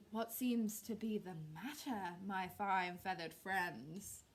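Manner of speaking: slow, sly, silky fox. Acted. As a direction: play a cunning fox. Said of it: "grinned Foxy Loxy".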